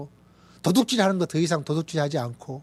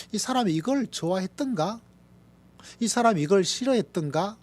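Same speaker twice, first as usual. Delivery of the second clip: wondering wife; 5 semitones higher than usual. Retold or imitated. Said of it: "같이 살고 있는 아내도".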